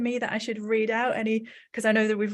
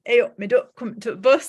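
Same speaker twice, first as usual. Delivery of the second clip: put-on a light touch of her Midlands village accent, a bit louder; fond, lightly voiced Midlands village greeting, "me duck"; casual Midlands village accent from her childhood; 5 dB louder than usual. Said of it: "my village accent".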